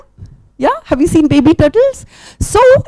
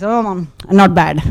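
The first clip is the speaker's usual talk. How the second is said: dog voice; 5 semitones lower than usual. Acted. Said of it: "the dog says".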